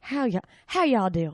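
slow Southern drawl greeting; imitated Southern accent. Host echoes the greeting, slow Southern accent. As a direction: draw out a mock Southern hello. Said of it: "Oh, the South".

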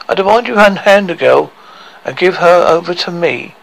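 lightly voiced king making a demand.

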